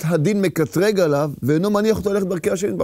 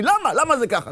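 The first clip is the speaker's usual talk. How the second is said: inner rebellion; 5 semitones higher than usual. Acted. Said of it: "יש לו איזה מרד פנימי".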